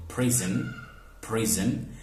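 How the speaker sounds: "prison" with the schwa dropped before n; syllabic n pronunciation. Shown as a demonstration. Teacher showing students the deleted schwa, syllabic n in "prison". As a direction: say "prison" with n carrying the second syllable. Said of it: "So we say prison".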